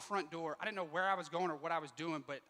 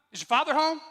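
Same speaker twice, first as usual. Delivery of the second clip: louder, higher stern cop question; mild mock bark; 9 semitones higher, 13 dB louder than usual. Cop barking at the son, mock loud. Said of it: "that same cop barks up at me".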